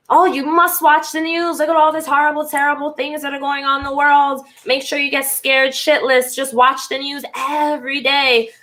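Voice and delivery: pushy mock voice selling fear, lightly done; mock alarmed preacher of news.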